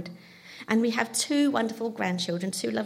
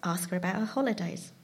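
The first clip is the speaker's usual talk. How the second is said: calm husband; 3 semitones lower, 5 dB quieter than usual. Retold or imitated. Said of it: "very calmly said".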